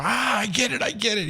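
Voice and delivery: high, light mock British "I get it"; lightly voiced Englishman catching on; imitating the British guy. British guy at the airport lounge, in a light mock British accent. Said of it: "he started like".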